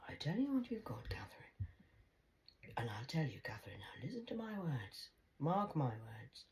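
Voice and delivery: whispered grandma advice; hushed wise gran. Retold or imitated. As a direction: confide it softly like a secret.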